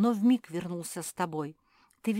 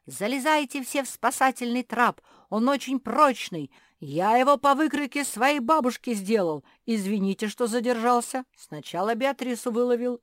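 shouting; 5 semitones higher, 6 dB louder than usual. A narrator's reading. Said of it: "и орал".

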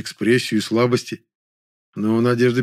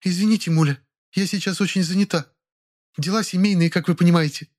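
proud and dignified; 8 semitones higher than usual. A narrator's reading. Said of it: "с гордо поднятым подбородком сказала".

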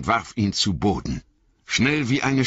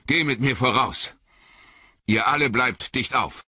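higher, pressing commands; urgent wizard orders; 6 semitones higher than usual. A narrator's reading. Gandalf drives the fellowship onward, urgent. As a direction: hurry them on in the dark.

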